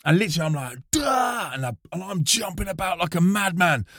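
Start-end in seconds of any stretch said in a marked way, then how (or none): 0.9-1.5 high, soft mock shout "duh!"; mock wild yell. Jumping about on stage like a madman, mock yell. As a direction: imitate a madman's burst of noise.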